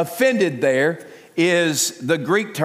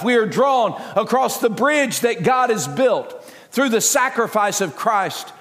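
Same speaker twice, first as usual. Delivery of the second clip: fervent preaching voice, a bit higher; 3 semitones higher than usual. Acted. Pastor preaching the kingdom message to the congregation. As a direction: proclaim it like a revival preacher.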